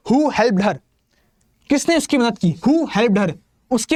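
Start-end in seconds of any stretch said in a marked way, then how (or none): 0.1-0.8 slow example read. Shown as a demonstration. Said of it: "reads the example sentence".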